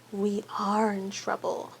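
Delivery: hushed realisation of trouble; dread. A narrator's reading. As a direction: whisper the doom to yourself. Caught, dread sinking.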